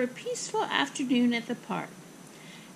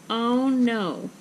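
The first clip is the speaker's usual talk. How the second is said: loud, drawn dismayed exclamation; mild gasp; 5 dB louder than usual. Acted. Mother finds tickets missing, mildly aghast. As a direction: sound aghast without much pitch change. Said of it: "Ava's mother gasped".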